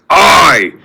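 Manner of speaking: slow, booming word-by-word roar; drawn-out battle cry rising high; Groot's scream. A narrator's reading. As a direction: roar each word separately, climbing to the last. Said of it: "Groot nods and screams".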